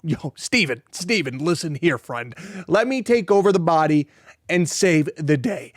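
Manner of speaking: put-on a light, breezy American accent dropped into a quote; imitating a laid-back American accent, only lightly voiced; casual American accent. Hero personality stepping in to save friend, in a mild American accent. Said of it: "an American accent".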